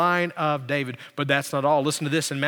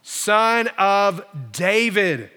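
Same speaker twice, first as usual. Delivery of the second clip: slow, drawn-out imploring call; crying out; much slower than usual. Retold or imitated. Woman names Jesus as she begs, crying out. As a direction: stretch each word like a reverent appeal. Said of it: "began to cry out, saying".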